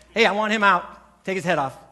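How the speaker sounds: loud, curt royal command; angry king's order. Retold or imitated. Preacher voicing a king ordering a beheading, loud. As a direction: bark the order to behead him.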